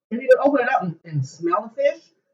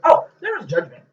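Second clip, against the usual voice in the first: a touch louder daughter impression; quoting daughter; 5 semitones higher, 9 dB louder than usual. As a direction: lightly mimic the daughter again. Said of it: "what did my daughter say".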